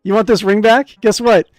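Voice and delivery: loud, high mock taunting. Hero taunts the pet bird, loud and high. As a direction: needle the bird like a brat.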